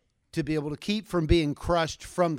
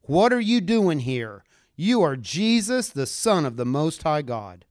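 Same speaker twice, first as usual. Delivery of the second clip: demon screaming; 5 dB louder than usual. Acted. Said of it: "screamed out".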